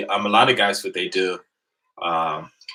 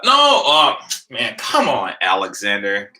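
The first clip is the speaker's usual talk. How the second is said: startled protest; 3 dB louder, slower than usual. Real, not acted. Protesting to a friend.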